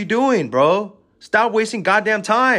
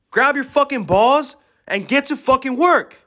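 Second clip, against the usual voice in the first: raised, forceful yell at the listener; 4 semitones higher, 3 dB louder than usual. Real, not acted. Pumping up his listeners to work, real yelling. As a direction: bark the order like a fired-up coach. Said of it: "Sorry I'm fucking yelling".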